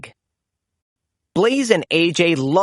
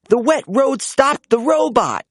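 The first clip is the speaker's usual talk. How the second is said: high, bright cheer; 7 semitones higher than usual. A narrator's reading. AJ cheering as the robot breaks, high. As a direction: celebrate the robot falling. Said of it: "cheered A J".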